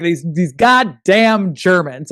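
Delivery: slow, drawn-out grumble at the Germans; mock grumbling Czech. Podcast host imitating a Czech complaining about Germans, slow mock grumble. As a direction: growl it out like a fed-up local. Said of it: "And they're like".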